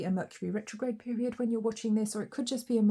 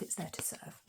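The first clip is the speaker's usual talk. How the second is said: breathed softly, no voice; whisper; 3 semitones lower, 13 dB quieter than usual. Real, not acted. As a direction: whisper it like a secret. Whispered echo of previous line.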